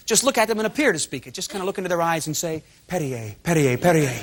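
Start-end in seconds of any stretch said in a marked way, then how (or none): 2.9-4.2 low-pitched, lightly seductive French murmur; mock French romancing. Shown as a demonstration. Host faking French to score with chicks, mock-romantic. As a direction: pretend to woo in French. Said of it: "French is the most romantic language".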